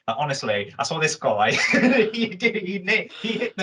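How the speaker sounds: mock Essex as done by an American actor; imitated Essex accent. Retelling an interview for co-host, imitated Essex accent. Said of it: "And he was like this".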